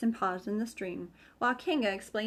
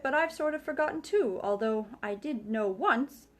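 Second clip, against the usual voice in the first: Rabbit; 5 semitones higher than usual. A narrator's reading. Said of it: "said Rabbit".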